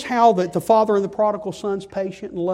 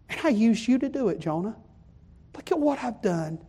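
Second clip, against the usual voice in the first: patient pleading. Acted. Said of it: "God patiently pleading with his prophet".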